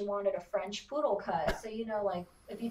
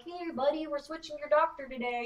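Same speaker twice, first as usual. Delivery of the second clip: talking to a dog; 5 semitones higher than usual. Pretend. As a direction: pretend dog-talk, pitched up. Pretend chat with a dog.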